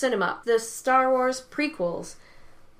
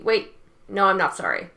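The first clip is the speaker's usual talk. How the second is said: defiant; 6 dB louder than usual. Real, not acted. Retracting apology, scolding fans.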